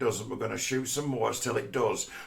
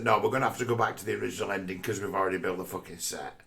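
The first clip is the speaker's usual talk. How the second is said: mock studio exec; 5 semitones lower, 3 dB quieter, faster than usual. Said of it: "the studio got in touch and said".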